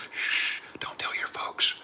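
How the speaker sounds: slow conspiratorial whisper; playful whisper. Pretend. Streamer to chat, joking about a secret bobcat romance, slow whisper. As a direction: hush it like sharing a naughty secret.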